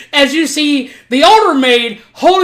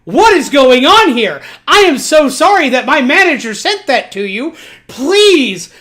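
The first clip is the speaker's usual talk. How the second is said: mock panicked pleading; freaking out. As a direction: act out a mild freak-out, apologizing. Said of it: "little pig girl freaks out".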